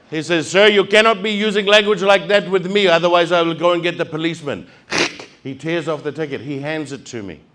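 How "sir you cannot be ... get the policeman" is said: a hint of a prim officer scolding, louder; officious warning, lightly voiced; mock stern rent-a-cop.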